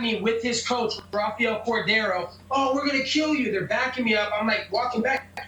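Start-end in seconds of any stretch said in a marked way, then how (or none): 2.5-3.5 higher-pitched imitation of two men threatening; retold yell, pitched up; mock scream. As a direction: mimic their yelled threat without extra volume. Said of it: "he's screaming at me".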